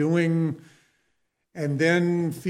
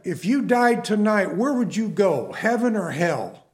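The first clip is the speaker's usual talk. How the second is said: raised, pointed question called out; retold yell; 3 semitones higher than usual. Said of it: "this guy yelled out at me".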